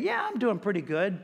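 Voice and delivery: low, offhand self-excusing; casual self-justification. Acted. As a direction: shrug it off as doing fine. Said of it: "things that we're probably saying".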